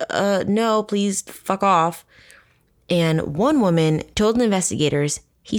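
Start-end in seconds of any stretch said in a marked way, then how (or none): 0.1-2.0 slow, deadpan brush-off; blunt refusal. Retold or imitated. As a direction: drag out a flat no.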